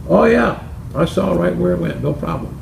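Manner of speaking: high, lightly voiced reassurance; a hint of a smug old pal; confident George. George assures Bill he saw the ball, starting high and lightly sure.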